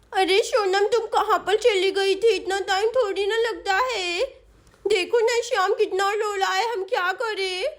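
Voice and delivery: put-on babyish, helpless complaint; complaining little girl. Chinki asks returning Sonam what to do, complaining child voice. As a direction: whine like a child left minding a baby.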